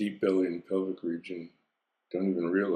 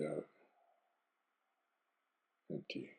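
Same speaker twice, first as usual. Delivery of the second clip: breathy fade; 4 semitones lower, 16 dB quieter than usual. Acted. Exhale word.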